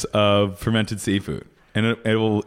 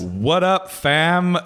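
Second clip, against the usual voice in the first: mock young hipster; 5 semitones higher, much slower than usual. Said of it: "you come in on a bird scooter".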